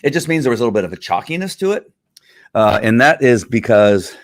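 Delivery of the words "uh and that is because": out of breath. Real, not acted. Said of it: "well, I'm out of breath".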